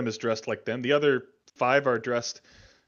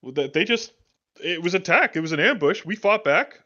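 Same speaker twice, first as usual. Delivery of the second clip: heated, defensive fighter; agitated survivor; 4 semitones higher, 6 dB louder than usual. Acted. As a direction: insist you were ambushed. GM voices survivors.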